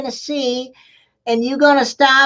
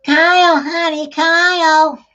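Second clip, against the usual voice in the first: calling out; 4 semitones higher, 5 dB louder, slower than usual. Acted. Mama calls son across house.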